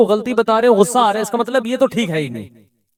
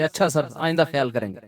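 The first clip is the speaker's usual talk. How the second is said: polite student reply; 5 semitones lower, 6 dB quieter, faster than usual. Retold or imitated. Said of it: "تمیز سے".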